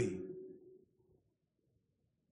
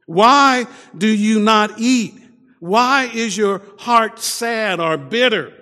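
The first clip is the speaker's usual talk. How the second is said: pleading husband; 4 semitones higher than usual. Retold or imitated. Husband asking his weeping wife why, high and earnest. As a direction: ask her gently why, voice raised high. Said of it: "her husband said to her".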